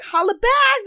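high, loud mimicked slogan; mock excited cheer. Contestant announcing her shirt slogan, mock excited. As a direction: call it out high like a proud contestant. Voices Sarah answering about shirt.

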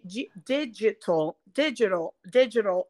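digital repetido com G do português; digital aportuguesado. Shown as a demonstration. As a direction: repita digital à brasileira. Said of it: "usando o som do G do português". (digital dito do jeito brasileiro)

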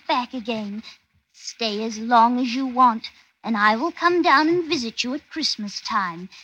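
reciting a letter to father; letter reading. Acted. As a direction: read it as a dutiful daughter's letter. Reads her letter aloud.

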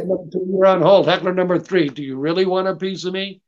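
fast mock taunt at a heckler. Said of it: "I have a technique where I go".

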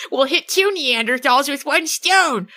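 slow, drawn-out gleeful plan; triumphant. Retold or imitated. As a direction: savor the clever idea. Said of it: "Phoebe's like".

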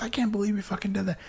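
a hissed quarrel line; mock whispered anger. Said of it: "You're fucking back and forth".

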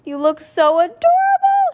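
high, loud gushing mom voice; gushing exclaim. Acted. Mom gushing at her daughter's gap-toothed grin, high and loud. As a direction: coo it up high like a delighted mom. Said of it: "she exclaimed".

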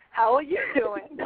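slow, careful, proper "How are you doing?"; white-sounding. Shown as a demonstration. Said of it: "I sound so white when I say that".

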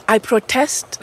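"protest" stressed on TEST; stress on second syllable. Shown as a demonstration. Teacher gives students a model verb, "protest" stressed on TEST. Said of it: "how do you pronounce that word".

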